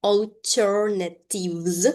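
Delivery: "alternatives" slowly, opening on a long "or" vowel; "or" sound. Shown as a demonstration. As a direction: draw out the first vowel of "alternatives" as "or". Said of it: "pronounced with a sound or".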